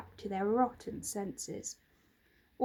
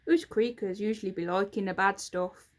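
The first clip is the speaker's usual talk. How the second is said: a curious little creaker peering up; sneaky storybook goblin asking; 2 semitones lower, 5 dB louder than usual. Acted.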